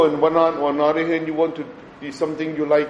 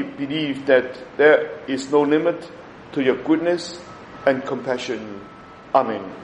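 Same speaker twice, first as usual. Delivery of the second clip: prayer reading; 2 semitones higher than usual. Acted. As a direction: read the prayer reverently. Prays the novena prayer.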